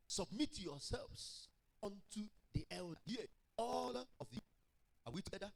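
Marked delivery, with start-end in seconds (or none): 0.1-4.4 declamatory scripture reading. Real, not acted. Reads scripture aloud to congregation.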